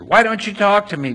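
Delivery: a touch of a frustrated governor; demanding. A narrator's reading. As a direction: push him for an answer. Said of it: "Pilate demanded".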